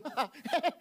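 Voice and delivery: short high laugh. Acted. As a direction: laugh off the wrongdoing. Laughs mimicking careless sinners. (tertawa enteng)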